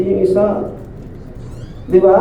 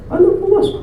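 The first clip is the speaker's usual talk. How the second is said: mocking high question; 12 semitones higher, much faster than usual. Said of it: "Sabi ng tatay niya".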